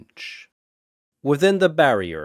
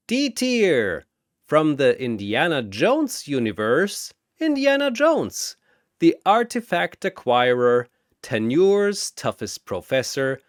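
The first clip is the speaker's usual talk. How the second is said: booming announcer; 3 semitones higher than usual. Acted. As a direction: boom it across the arena. Announcer introduces next fighter.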